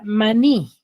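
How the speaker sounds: "maní" with the weight on NÍ; stress on last syllable. Shown as a demonstration. Teacher gives pupils an example word, "maní" stressed on NÍ. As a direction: land firmly on the final syllable of "maní". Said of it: "En la sílaba ni".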